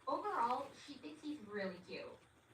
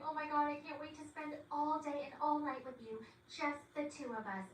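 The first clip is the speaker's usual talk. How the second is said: lightly acted gushing, higher pitch; excited; 5 semitones higher than usual. Girlfriend tells boyfriend she can't wait, mildly excited. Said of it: "both so excited".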